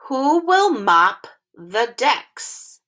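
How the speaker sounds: "Who will mop the decks?" slow, each word apart, rising on "will"; careful teacher read-along. Shown as a demonstration. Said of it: "practice reading this sentence together".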